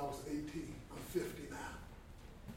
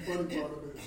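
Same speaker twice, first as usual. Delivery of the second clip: laughing through the words, then a burst of laughter; amused, cracking up at the joke; 8 dB louder than usual. Real, not acted. Laughing at funny situation.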